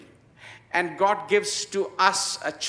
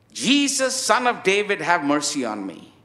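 crying out loud. Retold or imitated. Preacher retelling the blind beggar's repeated plea, imitating a shout. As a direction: call out for attention, then let it drop. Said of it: "He starts shouting, crying out loud".

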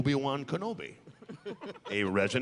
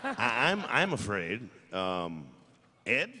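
high, slow put-on robot voice; hammed-up droid; 7 semitones higher, slower than usual. Droid butler stalling while asking his friend for help. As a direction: stretch it out like a silly droid.

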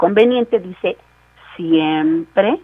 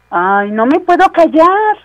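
higher, slow, mock lament; exasperated confession; 9 semitones higher, 3 dB louder, slower than usual. Pastor mimics a talkative believer, mock lament. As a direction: act helpless to stop talking. Acting out someone who cannot stop talking.

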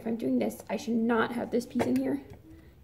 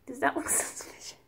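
whispering; 4 dB quieter than usual. Real, not acted. Whispered aside while filming.

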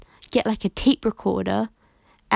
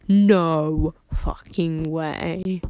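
slow, lower, drawn-out disbelief; stunned disbelief; 3 semitones lower, 3 dB louder, much slower than usual. Retold or imitated. Opening the birthday gift, slow stunned disbelief. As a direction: let each word hang in shock. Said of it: "I opened it and was like".

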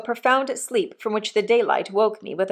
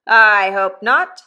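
a lightly voiced rough old convict, louder; hint of a coarse old convict talking to his boy; 8 dB louder, slower than usual. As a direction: give the old convict a bluff, hearty push. Convict Magwitch voiced in story.

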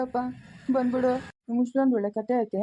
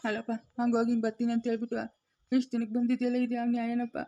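softer, weepy complaint to the grandson; tearful reproach; 6 dB quieter than usual. Acted. Old man softly weeping at his late grandson. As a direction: choke the words out softly through tears. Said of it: "ಯಾಕೆ ಅಳ್ತಾ ಇರೋದು ನೀನು?".

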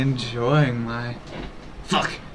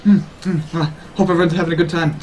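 playing jittery and caffeinated, higher voice; hyped on sugar; 3 semitones higher, faster than usual. Streamer checking on chat in requested voice, hyped up. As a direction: stammer along as if buzzing on sugar. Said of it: "really hyped up on sugar".

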